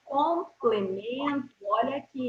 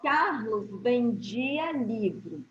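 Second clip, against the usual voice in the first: slow, measured example sentence; deliberate, measured; slower than usual. Shown as a demonstration. Teacher giving pupils the example sentence, slow and deliberate. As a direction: read it out slowly for the class. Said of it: "eu vou falar pausadamente".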